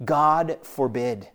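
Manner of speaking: "God forbid" drawn out slowly; weighty, slow "God forbid". Shown as a demonstration. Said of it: "he is in essence saying".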